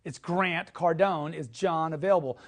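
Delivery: slow, even greeting with Cardone stressed; slow repeat. Shown as a demonstration. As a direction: say it slowly and plainly. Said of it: "It sounds like this".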